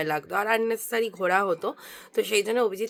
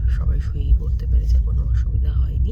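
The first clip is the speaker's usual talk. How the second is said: speaking softly. Real, not acted. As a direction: keep it down so nobody sleeping nearby wakes. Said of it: "আমি এখনো আস্তে আস্তে কথা বলছি". (ঘুমন্ত লোকের পাশে আস্তে, চাপা গলায়)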